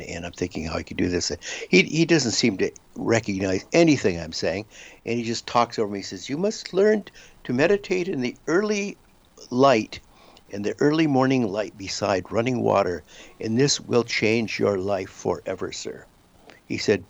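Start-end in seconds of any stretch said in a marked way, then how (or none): 6.3-16.0 put-on old Indian accent. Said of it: "he sounds very old and has a very thick accent".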